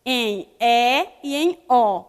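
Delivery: E and O said with open mouth, as in "café"; open vowels. Shown as a demonstration. Teacher showing pupils the open sound, open E and O. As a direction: draw out open "É" and "Ó" slowly. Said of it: "Indica também o som aberto".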